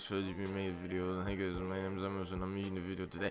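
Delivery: unclear, poorly enunciated talk. Showing how not to talk when making a video, mumbled unclear speech. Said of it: "enunciate your words clearly ... you don't sound like this".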